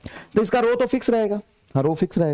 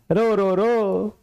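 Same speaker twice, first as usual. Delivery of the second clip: drawn out; 2 semitones higher, much slower than usual. Shown as a demonstration. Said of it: "drawn-out stress on रो".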